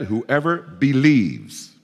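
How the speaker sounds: slow, drawn-out "Whoever believes"; stress on whoever believes. Shown as a demonstration. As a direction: lean hard on "Whoever believes" for note-takers. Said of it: "Focus on that word".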